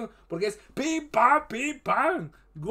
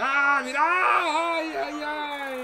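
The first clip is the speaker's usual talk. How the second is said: excited cry; 3 semitones higher, much slower than usual. Real, not acted. Reacting to near miss.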